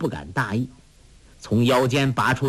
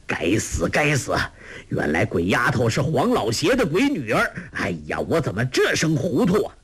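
cursing loudly. Acted. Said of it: "那农夫大骂".

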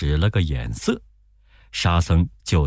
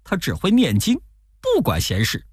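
higher, pleading monk voice; Tang Seng pleading; 7 semitones higher than usual. Acted. Monk begging the robber to let disciples pass, pleading.

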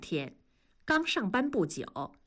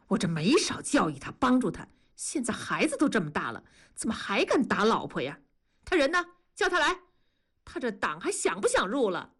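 brisk, exasperated scolding at near-normal pitch; a fed-up foreman venting, quick and clipped in pace; angry; faster than usual. Acted. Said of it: "孙师傅生气地说". (车间师傅对打老婆的工人生气地数落)

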